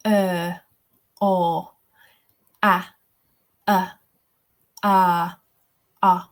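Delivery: crisp RP vowels, one at a time; British RP vowel drill, each sound held apart; RP accent. Shown as a demonstration. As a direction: read out isolated vowel sounds in your best RP. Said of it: "channel my best R P".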